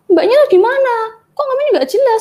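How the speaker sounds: mock furious customer yelling at the saleswoman; retold scolding. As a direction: imitate a customer berating the clerk. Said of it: "Terus saya dimaki-maki kayak gitu".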